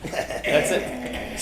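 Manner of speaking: said with tongue sticking out. Shown as a demonstration. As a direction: stick your tongue out and say "That's it". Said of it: "We say while sticking out your tongue".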